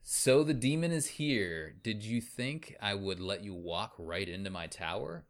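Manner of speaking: a hint of a gloating alien villain; lightly sneering bad-guy voice; sneering panto villain. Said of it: "He says".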